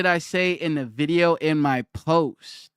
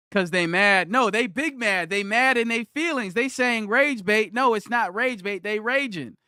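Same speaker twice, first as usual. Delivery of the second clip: mocking; 5 semitones higher than usual. Real, not acted. Streamer mocking angry commenters.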